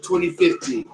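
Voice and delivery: slow, measured headline reading; news read. Real, not acted. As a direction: announce the next story deliberately. Reads the next headline aloud.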